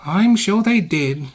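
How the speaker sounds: slow, weary, high groan. A narrator's reading. Small engine tires of bragging, groaning. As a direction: drag it out, fed up. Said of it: "groaned Percy".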